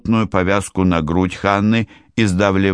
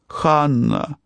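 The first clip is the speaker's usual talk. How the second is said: sobbing cry; 8 semitones higher than usual. A narrator's reading. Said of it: "всхлипывает Силка".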